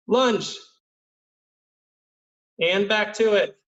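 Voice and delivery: calling out. Real, not acted. Coach calling drill commands.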